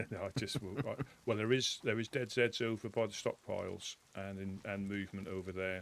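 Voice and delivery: talking into a tin can; tinny transistor radio. Real, not acted. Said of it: "Your voice box sounds a bit funny today".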